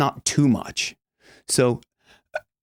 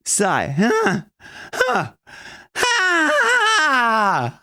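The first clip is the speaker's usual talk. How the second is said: much higher pushed huh and ha; sighing huh demo; 11 semitones higher, much slower than usual. Shown as a demonstration. Coach showing the balanced breath push. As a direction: let little puffs of air out high. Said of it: "pushing a little bit of air in that huh".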